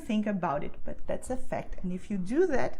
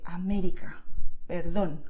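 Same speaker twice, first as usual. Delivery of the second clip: América and perdón punched on MÉ and DÓN; stressed with passion; 3 semitones lower, 4 dB louder than usual. Shown as a demonstration. Teacher urging learners to go all for it, passionate stress on América, perdón. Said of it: "like with passion".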